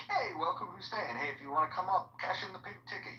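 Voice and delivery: lightly imitated friendly host; welcoming spiel. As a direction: greet a newcomer with a practised pitch. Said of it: "he's got the spiel down".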